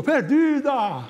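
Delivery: high, long-drawn heckler-like call; imitated shouted request. Another audience member requesting a bolero, imitated high call. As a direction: mimic another fan calling out high. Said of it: "Aí o outro falou".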